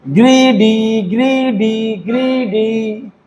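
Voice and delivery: ग्रीडी slow, with long "ee" in both syllables. Shown as a demonstration. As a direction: drill ग्रीडी on a level, stretched tune. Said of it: "तो उसको क्या पढ़ेंगे?".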